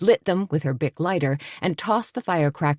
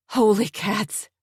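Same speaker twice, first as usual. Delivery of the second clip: yelling; 5 semitones higher, slower than usual. Acted. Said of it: "Suzanne yelled".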